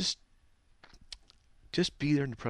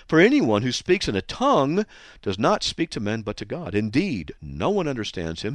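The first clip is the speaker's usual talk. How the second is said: louder, driving reading of the verses; emphatic scripture reading; 6 dB louder than usual. Shown as a demonstration. Preacher reading Corinthians aloud to the church, emphatically. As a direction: proclaim each line with weight. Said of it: "read, with emphasis".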